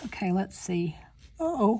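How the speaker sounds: speaking mid-yawn, words stretched by a yawn. Talking to viewers about her framed panels, she is talking through a yawn. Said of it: "I don't know why I'm yawning".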